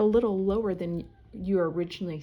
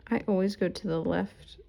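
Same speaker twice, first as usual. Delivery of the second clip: unvoiced whisper to herself. Real, not acted. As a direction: breathe the words as a private aside. Whispering to herself while stitching.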